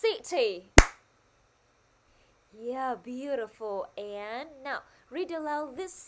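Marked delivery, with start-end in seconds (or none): 0.0-0.6 "City" hit loud on the first syllable; stress on first syllable. Shown as a demonstration. Teacher asking the class to read after her, stressed "City". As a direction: punch the start of "City". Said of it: "chúng mình hãy nhấn mạnh vào đó".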